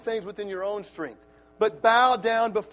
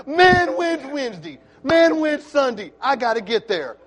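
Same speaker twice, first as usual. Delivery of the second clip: joyful believer; 3 semitones higher, 9 dB louder than usual. Pretend. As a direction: voice a churchgoer hungry for more. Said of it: "you'll be singing with gladness and saying".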